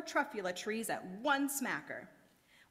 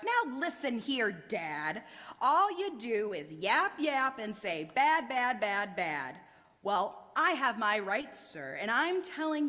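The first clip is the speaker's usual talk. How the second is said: yelling; 2 semitones higher, 4 dB louder than usual. Acted. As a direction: yell it right at him. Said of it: "I yelled at the Lorax".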